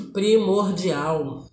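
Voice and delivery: primordial drawn out very slowly; stress on primordial. Real, not acted. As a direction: stretch out primordial, syllable by syllable. Stressing hygiene to caregivers.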